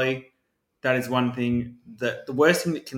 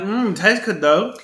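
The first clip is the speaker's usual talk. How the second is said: slow, higher, drawn-out relish; mock savouring; 6 semitones higher, 4 dB louder, slower than usual. Diner ignoring doubts about the food, mock savouring. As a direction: hum and savour it lightly. Acts out enjoying suspect food.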